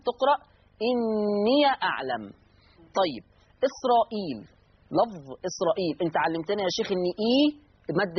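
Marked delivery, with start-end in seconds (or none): 0.9-2.2 slow "إني أعلم" with the ya of "إني" given a fatha, "إنيَ أعلم"; Warsh reading with open ya. Shown as a demonstration. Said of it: "يقرأ ورش بفتح الياء". (قراءة ورش بفتح ياء الإضافة في "إني أعلم")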